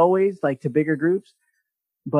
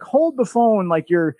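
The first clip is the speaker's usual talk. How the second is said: photographer coaxing; 5 semitones higher, 3 dB louder than usual. Retold or imitated. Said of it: "They're like".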